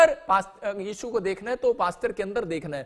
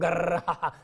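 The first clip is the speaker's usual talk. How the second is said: helicopter whirr; 3 semitones lower, slower than usual. Retold or imitated. Helicopter circling, imitated noise.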